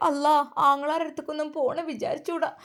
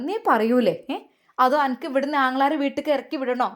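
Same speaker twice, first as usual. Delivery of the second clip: angry threat; 3 dB louder than usual. Acted. Mother-in-law threatens the wife.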